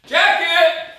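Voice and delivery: high squeaky joke voice; silly high voice. Pretend. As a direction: squeak it out, mocking his own slip. Jokingly repeats his slip "jacket.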